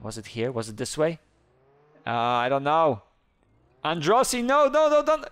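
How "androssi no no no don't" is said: high, loud, playful begging; mock panic. Player begging the cop Androssi not to arrest him, high mock panic. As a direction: whine don't arrest me, half joking.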